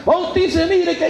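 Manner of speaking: crying plea. Retold or imitated. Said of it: "y llorando".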